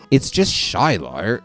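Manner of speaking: put-on slipped accent, "Shiloh" ending in an r; wrong accent. Child reassuring friend about Shiloh, in the wrong accent. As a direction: drawl it slowly, saying "Shiloh" like "shy-lar" in the wrong accent. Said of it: "Oops, wrong accent".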